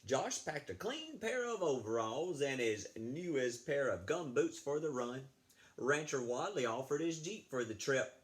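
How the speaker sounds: put-on lively read-aloud for children; storybook reading. Teacher reading a story to fifth graders, lively read-aloud. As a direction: read the tale to the class.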